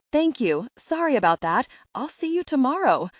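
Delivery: high, loud, over-eager reply; excessively caffeinated. A narrator's reading. Texting a potential boss too eagerly, excessively caffeinated. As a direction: gush it with exclamation points on every sentence. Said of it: "I do sound excessively caffeinated".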